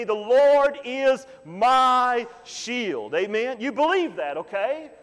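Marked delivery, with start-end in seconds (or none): 0.0-3.1 very slow, every word weighted; drawn-out unison declaration; call and response. Shown as a demonstration. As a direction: lead the church through it word by word. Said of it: "Say it with me".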